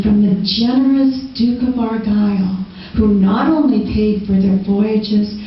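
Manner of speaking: rhythmic storytelling verse; measured spoken-word delivery with lingering line ends; performance poetry. Acted. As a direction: recite it like a ballad to a live audience. Recites performance poem.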